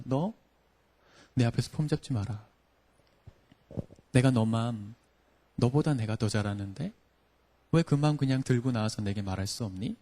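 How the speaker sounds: softly voiced, unhurried invitation with long pauses; God's gentle reproach. God speaking to the preacher at night, gently reproving. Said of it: "하나님께서 그날 밤에 저에게 찾아오셔서 말씀을 거셨습니다".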